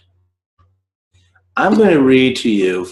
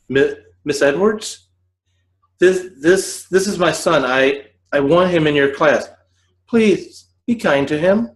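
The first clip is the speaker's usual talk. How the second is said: lightly voiced, stammering mother, a bit higher; anxious mother; 4 semitones higher than usual. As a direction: plead haltingly with the teacher. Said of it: "She said".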